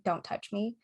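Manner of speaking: understated retold request. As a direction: say it quietly, without the rudeness. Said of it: "I probably wasn't that rude".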